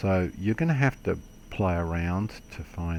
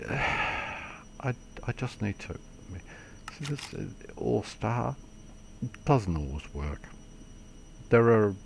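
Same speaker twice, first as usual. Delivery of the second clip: talking while choking; choking, struggling for breath; 5 semitones higher than usual. Real, not acted. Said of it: "I'm choking to death here".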